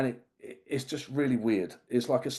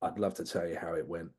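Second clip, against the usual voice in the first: villainous tone; 6 semitones lower, 8 dB quieter than usual. Retold or imitated. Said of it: "in a brilliantly villainous moment".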